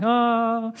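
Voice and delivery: drawn-out, high pretend wail; mock crying. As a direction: imitate a man crying with one long "ah". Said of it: "he starts crying".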